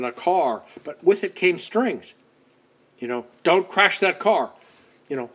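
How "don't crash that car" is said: mock parent warning.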